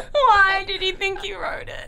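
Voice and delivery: laughing sob through the words; crying with laughter. Real, not acted. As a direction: ask it while crying laughing. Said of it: "I'm gonna cry".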